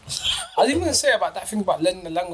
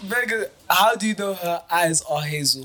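Nigerian accent. Shown as a demonstration. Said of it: "Let me try it".

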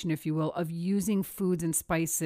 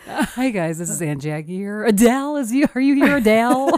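high, loud auntie calling out; 4 semitones higher, 9 dB louder than usual. Retold or imitated. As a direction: holler for her like a loud aunt. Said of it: "announce yourself as Aunt Jackie".

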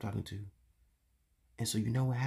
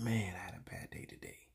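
tired whisper; 2 semitones lower, 6 dB quieter than usual. Retold or imitated. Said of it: "I'm like".

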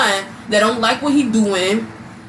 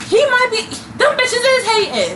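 imitating boyfriend; 12 semitones higher than usual. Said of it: "I think them bitches hating".

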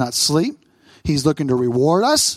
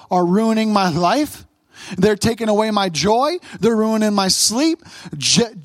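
restless worrier's complaint; 3 semitones higher, slower than usual. Retold or imitated. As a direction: voice the sleepless believer's gripe to God, building up. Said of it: "thinking to myself".

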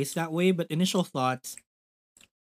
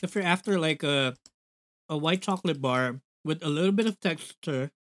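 candy stuck to the roof of the mouth; talking with sticky candy in the mouth; mouth full. Real, not acted. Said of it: "it got stuck to the roof of my mouth".

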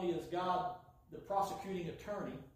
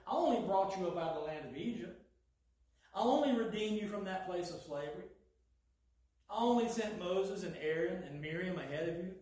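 sarcastic. Acted. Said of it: "this is slightly sarcastic God".

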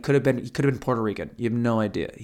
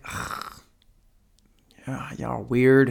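whisper; slower than usual. Retold or imitated. Muttering about the odd pair.

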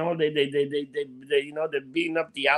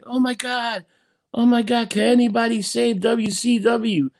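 frantic play-by-play shock, pitched way up; Tony Schiavone; 7 semitones higher than usual. Retold or imitated. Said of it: "you hear Tony Schiavone".

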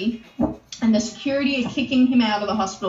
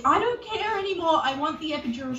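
mock a woman beside herself, pitched up at first; 5 semitones higher than usual. Retelling the labouring woman demanding an epidural, beside herself. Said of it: "She's beside herself".

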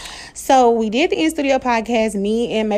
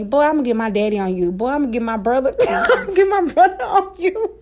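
fast, teasing threat ending in a laugh; petty taunt; 4 semitones higher, faster than usual. Pretend. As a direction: taunt him, playful and petty. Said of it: "Now I can say".

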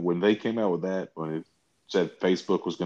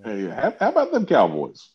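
pitched-up, louder joking catchphrase; mock-hearty small talk; 4 semitones higher, 5 dB louder than usual. Co-host jokingly changing topic to the Cowboys, high mock-hearty voice. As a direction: toss it out as exaggerated sports banter.

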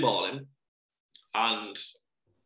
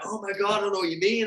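mock panic; 8 semitones higher, faster than usual. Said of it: "I'm like".

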